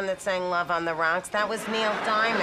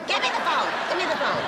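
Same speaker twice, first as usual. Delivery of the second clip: shouting demand; 4 semitones higher, 3 dB louder, faster than usual. Acted. Grabbing for the phone, shouting.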